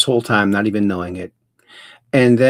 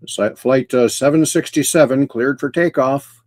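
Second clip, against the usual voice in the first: mock flight announcement. Host playing with the episode number, mock flight clearance. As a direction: air traffic call, lightly put on. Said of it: "it almost sounds like a flight".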